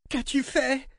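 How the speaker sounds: high, strained roar of the queen. A narrator's reading. Queen roaring at the girl in the dark. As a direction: scream it at the dark. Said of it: "rugit-elle".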